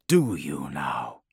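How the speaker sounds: low, slow, mocking; sly knife-like grin. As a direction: grin through the words. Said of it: "His grin is knife-like".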